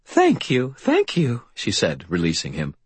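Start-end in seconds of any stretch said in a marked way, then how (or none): 0.1-1.4 put-on grateful old lady. Old landlady voiced in story.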